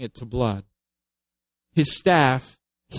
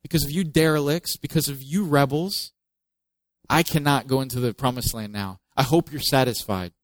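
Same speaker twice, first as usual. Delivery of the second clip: bitter blame. Retold or imitated. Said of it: "He says".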